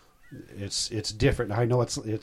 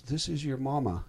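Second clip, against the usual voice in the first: lightly imitated Tennessee accent, a little higher; 4 semitones higher, 4 dB quieter than usual. Mother on the phone to her long-lost son, mild imitated Tennessee accent. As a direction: put on a hint of a Tennessee mother's twang. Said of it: "Richardson mom never talked like that".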